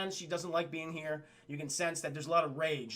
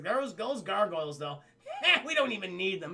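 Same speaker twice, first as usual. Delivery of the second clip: mock soldiers laughing it off; scoffing soldiers. Soldiers dismissing the gargoyles after battle, laughing scorn. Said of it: "the soldiers, and they're like".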